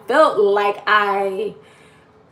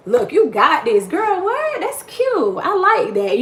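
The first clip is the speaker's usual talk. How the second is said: hyped-up friend; 7 semitones higher than usual. Retold or imitated. Voicing an encouraging friend.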